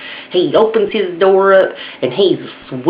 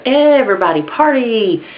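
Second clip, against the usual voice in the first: chirpy parrot; 6 semitones higher than usual. Acted. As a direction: chirp up high like a cheeky pet bird. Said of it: "that bird chirps up".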